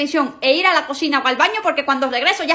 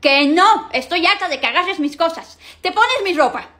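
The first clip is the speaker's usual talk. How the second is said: higher, louder, fed-up scolding; sibling quarrel; 5 semitones higher, 3 dB louder than usual. Acted. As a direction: snap at the brother who takes everything. Siblings quarrel over charger.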